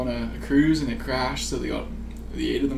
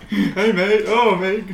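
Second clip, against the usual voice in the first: loud mock Aussie greeting, higher; Australian accent; 6 semitones higher, 8 dB louder, slower than usual. Mocking Australians in a hostel, loud mock Australian accent. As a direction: ham up an Aussie backpacker. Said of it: "Yeah, exactly".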